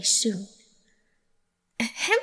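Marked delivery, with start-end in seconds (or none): 1.8-2.2 pompous throat clearing; self-important. Acted. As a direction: clear your throat grandly. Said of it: "with an important air".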